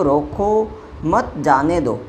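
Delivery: "रोको मत जाने दो" spelled out slowly, phrase by phrase; slow demonstrated phrasing. Shown as a demonstration. Teacher showing permission to go, slow "रोको मत जाने दो". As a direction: stretch "रोको मत", then let "जाने दो" fall. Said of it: "यानी उसको जाने की परमिशन".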